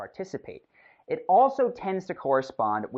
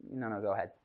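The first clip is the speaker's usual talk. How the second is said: soft, yielding "go ahead"; without conviction; 5 semitones lower, 8 dB quieter, faster than usual. Shown as a demonstration. Coach showing the wrong way, backing down without conviction. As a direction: give way meekly and let them take over. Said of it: "This is the wrong way, without conviction".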